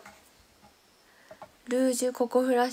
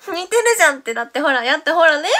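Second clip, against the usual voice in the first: loud laughing insistence, much louder and higher; laughing loudly; 4 semitones higher, 15 dB louder than usual. Real, not acted. Streamer laughing at viewers' reaction to her impression.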